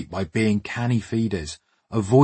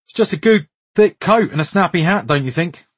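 put-on high, loud West African accent; proud West African accent, pitched well up; 8 semitones higher, 5 dB louder than usual. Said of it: "comes a thick West African accent".

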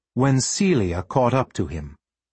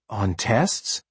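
confused. Acted.

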